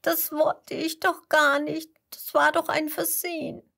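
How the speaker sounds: put-on tearful girl explaining it was an accident; tearful excuse. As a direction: plead through tears that it was an accident. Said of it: "Vera schluchzt".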